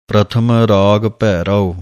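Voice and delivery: ਪ੍ਰਥਮ ਰਾਗ Bhairav then a clear break after Bhairav; pause after bhairav. Shown as a demonstration. Teacher shows students where to pause. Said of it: "ਇੱਥੇ ਵਿਸਰਾਮ ਹੈ".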